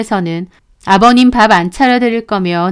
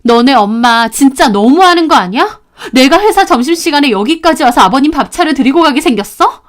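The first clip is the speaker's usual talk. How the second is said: louder, rising indignant protest; wife furious at her husband over his mother; angry complaint; 4 semitones higher, 4 dB louder than usual. Acted. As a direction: let the anger spill out at the husband. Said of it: "저는 남편한테 화나서 뭐라고 했죠".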